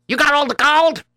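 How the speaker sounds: high, astonished disbelief; can't believe his ears; amazed question. Acted. Trader astonished at the brother's inheritance, high amazed ask.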